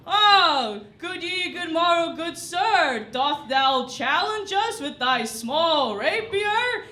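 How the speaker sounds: hammed-up olde English greeting; mock Shakespearean. Actors greeting the knife man in hammed-up Shakespearean speech. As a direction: play it like a stagey Shakespeare actor. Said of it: "we're Shakespeare actors".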